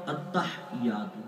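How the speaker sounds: التحیات slow and soft with a silent ha and no doubled ya; common mispronunciation. Shown as a demonstration. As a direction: mimic the careless التحیات. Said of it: "ہا کو ساکن کر دیتے ہیں". (التحیات غلط، ہا ساکن اور تشدید غائب)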